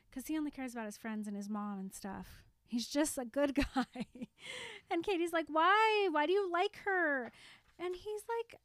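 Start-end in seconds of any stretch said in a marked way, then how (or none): 5.5-7.3 high, loud insistent whine; pushy demand. Retold or imitated. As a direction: press him hard for an answer, voice climbing. Katie pressing Erin in retelling.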